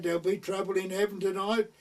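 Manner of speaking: lightly voiced teasing daughter; daughter's voice. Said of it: "she said".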